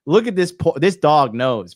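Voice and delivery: usual speaking voice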